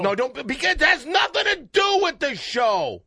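loud shout pleading with his cohost. Real, not acted. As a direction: shout him back down. Host shouting in argument.

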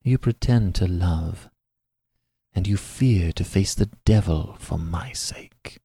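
disdainful. Acted. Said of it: "casting a look of disdain".

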